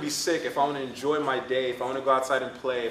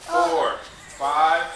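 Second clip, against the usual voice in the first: counting out loud, much louder; 6 semitones higher, 8 dB louder, slower than usual. Real, not acted. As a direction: drive the count like a drill coach. Coach leading push-up count.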